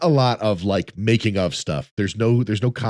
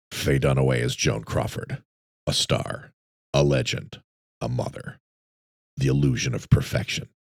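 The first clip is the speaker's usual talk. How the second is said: very low, slow, dark, menacing trailer voice; 8 semitones lower, 4 dB quieter than usual. Reading a movie's taglines aloud, menacing tagline reading. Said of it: "a little too much menace in your voice".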